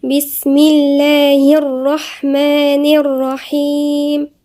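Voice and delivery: slow, drawn-out tajweed chant; measured Quranic recitation. Shown as a demonstration. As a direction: recite it melodically with long held vowels. Recitation opening.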